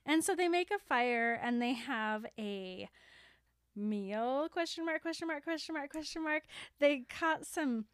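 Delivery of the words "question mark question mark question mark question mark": higher sing-along repeated monotone; comic doubt. Real, not acted. Recapping their dubious meal, comic doubt. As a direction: recite the punctuation on a raised pitch.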